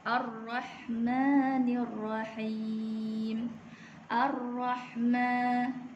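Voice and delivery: slow, measured tajwid recitation; Quran recitation. Shown as a demonstration. Teacher recites the second verse for students. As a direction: chant it slowly with long held vowels. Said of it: "ayat yang ketiga".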